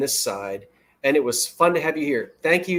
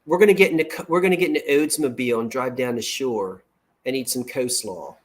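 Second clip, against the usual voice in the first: South Jersey accent. Shown as a demonstration. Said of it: "That's South Jersey".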